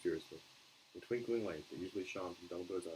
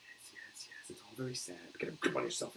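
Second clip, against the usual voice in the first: whisper; 2 semitones higher than usual. Acted. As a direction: hush him, mostly breath. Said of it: "Professor McGonagall whispered".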